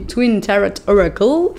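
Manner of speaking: English deck name in a thick-mouthed English accent; mouthy English accent. Real, not acted. Tarot reader naming the card deck, in a mouthy English accent. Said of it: "avec mon accent anglais, euh, bien patate dans la bouche".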